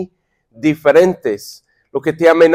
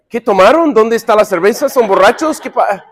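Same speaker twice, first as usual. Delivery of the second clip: mock incredulous questioning; 3 semitones higher than usual. Man walking in on ten crying men, mock incredulous. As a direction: fire off baffled questions, acting suspicious.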